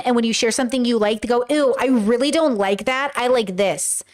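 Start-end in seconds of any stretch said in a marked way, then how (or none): 1.5-4.0 dismissive disgust. Acted. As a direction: imitate someone turning up their nose. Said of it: "people who can't accept".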